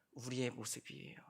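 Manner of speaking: whispered confession; hushed realization. Real, not acted. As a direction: drop to a whisper. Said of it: "whispered answer".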